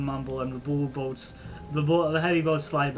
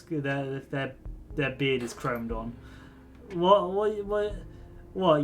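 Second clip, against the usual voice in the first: boastful rigger doctor; 2 semitones higher, slower than usual. Acted. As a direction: brag about the shop's defenses.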